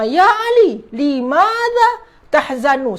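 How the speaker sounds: calling to Ali. Acted. Teacher acts asking a sad friend why, lightly called out. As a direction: call his name, then draw out the question. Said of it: "nampak si, uh, si Ali sedang bersedih".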